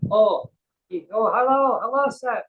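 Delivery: high excited greeting; lightly accented high cafe lady voice; imitating cafe lady. Cafe lady's greeting acted out.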